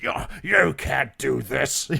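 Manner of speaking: slow, loud villain taunt; hammed-up slow villain yell. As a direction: drag it out like a mocking villain. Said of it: "yelling at myself in villain voices".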